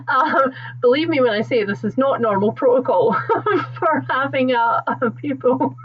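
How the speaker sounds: laughing through rising tears; a catch in the voice, half laughing; getting emotional. Real, not acted. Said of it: "Oh, I'm getting emotional".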